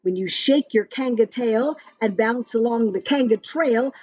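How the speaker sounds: lively sing-song rhyme reading; reading to children. Acted. Parent reading a rhyming story app to a child, sing-song. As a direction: read the verse brightly to a little one. Reads kangaroo verse aloud.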